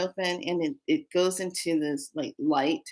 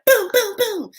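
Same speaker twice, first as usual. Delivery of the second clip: rapid high booms; acted-out fight noises; punching sound effects; 6 dB louder than usual. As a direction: shout a volley of blows. Acting out punches.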